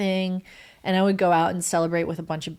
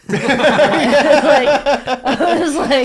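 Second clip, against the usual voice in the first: loud, high burst of laughter; words squeezed out through laughter; real helpless laugh while talking; 7 semitones higher, 11 dB louder, much slower than usual. Real, not acted. Bursts out laughing at shared memory.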